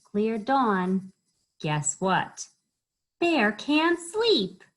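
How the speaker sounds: animated rhythmic storytime voice; children's story reading. A narrator's reading. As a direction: lift the key words playfully.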